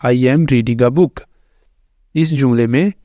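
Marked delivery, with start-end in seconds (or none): 0.0-1.2 very slow, word by word, each word set apart; slow dictation. Shown as a demonstration. Teacher dictating the correct sentence slowly to class. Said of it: "सही जुमला ये होगा".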